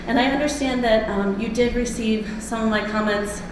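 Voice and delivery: breathless from running, with a cold; talking while catching breath. Real, not acted. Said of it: "I'm out of breath from running across the park".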